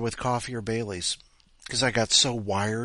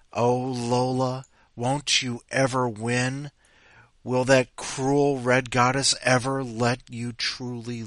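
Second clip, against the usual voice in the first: dramatic address; 4 dB louder, slower than usual. Acted. Reading her story aloud dramatically.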